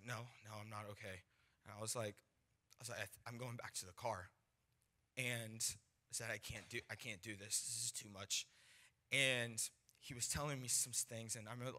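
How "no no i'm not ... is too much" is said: low-key, softer admission of defeat. Retold or imitated. Overwhelmed young evangelist answering his friend, quietly defeated. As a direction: give up quietly, almost to yourself.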